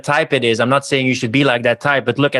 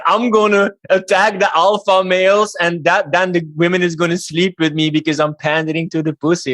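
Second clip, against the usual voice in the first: mocking white knight; 5 semitones higher than usual. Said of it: "white knighting".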